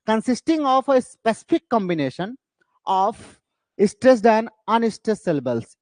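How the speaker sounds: very slow, word by word; slow dictation. Shown as a demonstration. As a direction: drag out each word for the notes.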